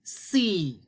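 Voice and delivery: lightly voiced shy puppet greeting; a hint of a sleepy puppet saying hello; gentle puppet voice for the class; puppet Tony. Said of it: "Tony, tell us our next word".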